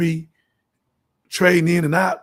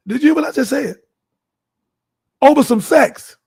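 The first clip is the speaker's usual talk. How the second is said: outraged outburst; 6 semitones higher, 4 dB louder than usual. Real, not acted. Preacher scolds audience, outraged.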